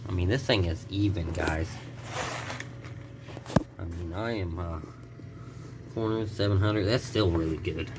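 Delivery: talking through a swollen mouth; swollen mouth after dental work. Real, not acted. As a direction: speak like molars were just pulled. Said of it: "sorry if I'm talking a little weird".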